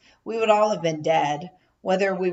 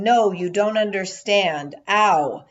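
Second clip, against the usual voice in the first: louder exasperated cry; frustrated yelling; 4 dB louder, slower than usual. Retold or imitated. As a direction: yell in frustration. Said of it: "still yelling".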